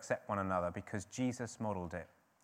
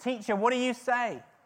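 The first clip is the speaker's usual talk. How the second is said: joking, jeering mocking tone, loud and way up; 13 semitones higher, 8 dB louder than usual. Retelling the Jewish leaders pressing Jesus, the speaker acts out a joking, mocking voice. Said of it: "joking, mocking voice".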